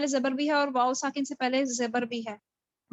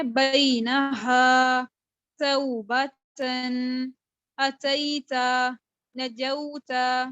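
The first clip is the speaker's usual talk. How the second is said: recitation; much slower than usual. Shown as a demonstration. Recites Quran words slowly.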